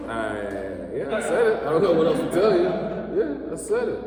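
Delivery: high, laughing, unapologetic; defiant. Retold or imitated. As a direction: own it, laughing.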